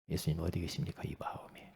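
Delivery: 숨소리만으로 조용히 묻기; 귓속말하듯 부드럽게 묻는 질문; whisper. Retold or imitated. Retold question to new believer. (새 신자에게 속삭이듯 묻기)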